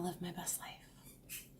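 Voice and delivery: breathy whispered repeat; hushed private aside. Shown as a demonstration. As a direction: whisper it to yourself. Repeats line then whispers it.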